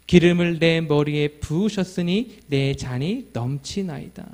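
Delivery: solemn psalm recitation; scripture reading. Acted. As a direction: read the psalm evenly, slightly slowed.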